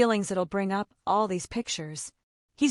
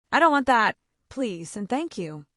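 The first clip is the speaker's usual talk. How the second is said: put-on child's memorized script. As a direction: recite it like a learned line. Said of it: "he said this memorized script".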